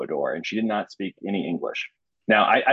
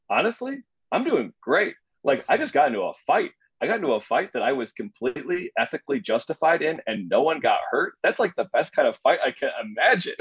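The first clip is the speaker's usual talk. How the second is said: giddy; 5 semitones higher than usual. Retold or imitated. Tells Devin he feels great.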